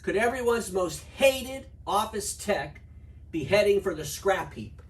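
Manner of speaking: slow ominous headline voice; slow dramatic headline read. Shown as a demonstration. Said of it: "Just imagine, if you will".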